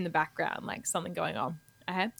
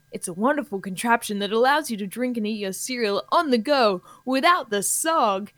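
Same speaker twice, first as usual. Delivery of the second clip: radio ad spokesperson. Acted. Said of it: "two people in conversation".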